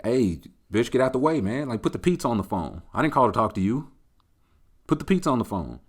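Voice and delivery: hammed-up pushy caller; mock rude demand. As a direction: brush the woman aside to get to the pizza.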